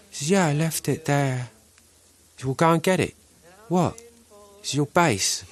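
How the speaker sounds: a hint of bewildered English musician; English accent. Christopher Guest telling a hotel story in a light English accent. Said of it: "hear Christopher Guest talk about the origins of Nigel Tufnell".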